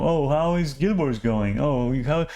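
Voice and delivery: mock small talk. Mimicking conversations that are not meaningful, mock small talk. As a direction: parody a routine catch-up question.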